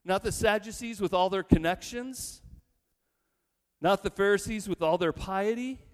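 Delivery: high, disbelieving protest, pitch leaping up; incredulous disbelief. Pretend. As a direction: play the crowd who can't believe they're chosen. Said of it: "They say".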